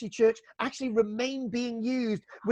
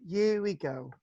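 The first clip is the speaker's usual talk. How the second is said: breathy hushed whisper, softer; playful whisper; 3 semitones lower, 3 dB quieter, slower than usual. Shown as a demonstration. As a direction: whisper it like a secret before a story. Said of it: "unvoiced whisper".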